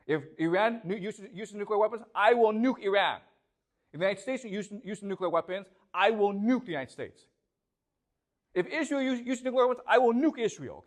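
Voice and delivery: lightly voiced stern leader, building up; a touch of Putin laying down the law; Putin's warning. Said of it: "Putin says from the out".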